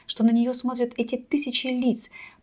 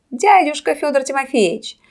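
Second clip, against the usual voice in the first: loud showman over a roaring crowd; booming circus ringmaster; 3 semitones higher, 7 dB louder than usual. A narrator's reading. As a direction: announce it loudly, like a ringmaster. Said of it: "закричал хозяин".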